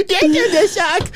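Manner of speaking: high drawn-out ghostly voice; slow eerie taunt; high slow creepy voice. Retold or imitated. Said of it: "The Tugget's going".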